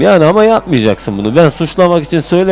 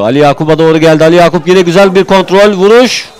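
building excitement; 4 semitones higher, 3 dB louder than usual. Real, not acted. Attack builds to shot.

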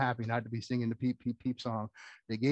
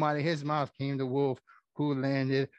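plain reading voice

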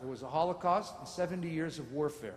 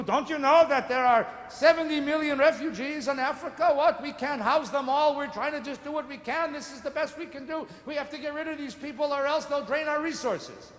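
put-on Romanian accent; 7 semitones higher, 5 dB louder than usual. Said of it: "speaking with a Romanian accent".

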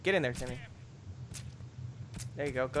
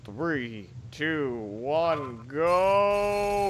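countdown; much slower than usual. Real, not acted. Countdown to a game start.

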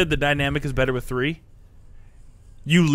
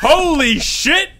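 even higher, slow drawn-out glee; gleeful; 11 semitones higher, much slower than usual. Real, not acted. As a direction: push it higher, relishing it. Repeats louder.

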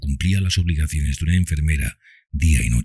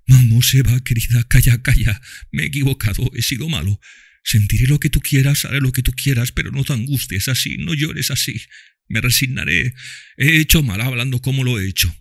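soothing father; 9 semitones higher than usual. A narrator's reading. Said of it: "palabras afectuosas".

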